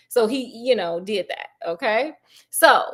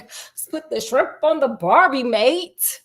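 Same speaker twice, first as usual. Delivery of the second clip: muddled put-on Aussie accent; lightly hammed Australian twang; mock British-Australian accent; 3 semitones higher, slower than usual. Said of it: "in a British and or Australian accent".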